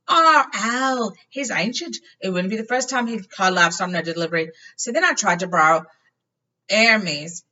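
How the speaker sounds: chatty Ron; Ron explaining. A narrator's reading. Ron voiced.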